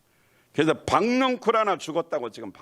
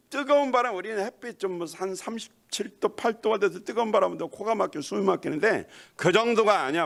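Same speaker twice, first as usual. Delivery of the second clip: usual speaking voice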